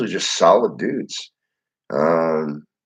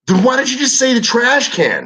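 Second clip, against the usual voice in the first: incredulous retort. Retold or imitated. Incredulous retort in retold argument.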